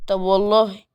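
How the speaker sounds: put-on Adam daring the girl through the door, firm; defiant man. Adam dares her at door.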